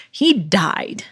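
hushed unvoiced whisper. Real, not acted. Whispering to listeners that the athlete died. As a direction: drop to a dramatic whisper. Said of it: "I don't know why I said it like that".

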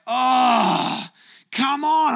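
high, loud cry of exasperation, half crying; exasperated cry. Retold or imitated. Preacher reliving the lost key, high exasperated cry. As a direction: let it burst out, fed up with yourself. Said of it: "I'm like".

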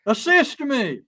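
high, polite-worded mock cry for help; mock yelling. Trapped person using the wrong word, mock yelling. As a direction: call out as a pretend plea.

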